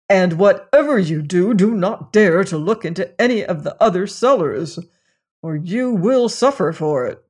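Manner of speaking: lightly voiced master, stern and cross; stern angry master. Master scolding the lad for disobeying, stern and angry. Master warns before journey.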